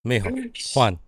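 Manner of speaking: low, measured address with pauses; solemn mom. Acted. Mom reminding her only son who he is, solemn and low.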